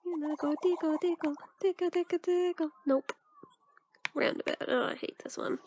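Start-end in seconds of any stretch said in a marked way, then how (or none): 0.3-2.7 lightly raised, singsong tickling; playful tickle talk. Pretend. Tickling a game character playfully.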